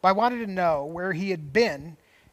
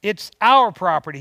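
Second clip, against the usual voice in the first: angry husband; 2 semitones higher, 10 dB louder than usual. Retold or imitated. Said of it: "with his blue eyes filled with anger".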